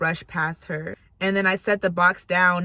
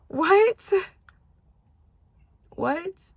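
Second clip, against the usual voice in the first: high, rising incredulous question; high-pitched, astonished what; stunned disbelief; 12 semitones higher than usual. Real, not acted. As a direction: squeak it up in astonishment. Stunned by the answered prayer.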